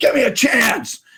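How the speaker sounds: high, insistent, demanding shout. Retelling how the seller yelled at him, retelling a yell. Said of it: "he yells at me and goes".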